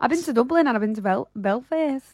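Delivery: quick, stumbling, bad Irish accent; co-host pressing the joke in an awful Irish accent. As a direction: rattle it off in a clumsy Irish accent. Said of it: "that is an awful accent".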